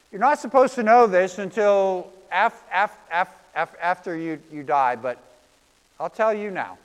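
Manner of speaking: a hint of a fond, indulgent God; amused, affectionate deity; James Gardner as God. God answering Bob's questions, lightly voiced and fond. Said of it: "God, in James Gardner's voice".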